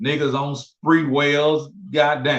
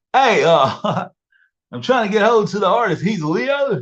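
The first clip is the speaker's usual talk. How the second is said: really goofy, high-pitched voice; 6 semitones higher, 4 dB louder than usual. Retelling a phone call from a club owner wanting a show: goofy caller voice. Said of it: "it was a real goofy voice".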